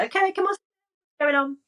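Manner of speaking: lifted, encouraging check-in; coaxing little self. Acted. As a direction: coax a small child to open up. Coaxing her imagined little self.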